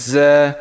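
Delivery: জ্যা with a long buzzing z; buzzy za. Shown as a demonstration. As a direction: buzz into জ্যা and hold it. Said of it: "এটা একটু ঝাঁঝালো টাইপের হবে". (ঝাঁঝালো টানা জ্যা)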